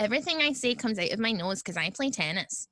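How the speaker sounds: lightly voiced suburban homeowner; a hint of talking through the nose; Newton Mearns woman. Co-host showing how the poster should sound, lightly voiced Newton Mearns. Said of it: "quite like a Newton Mearns".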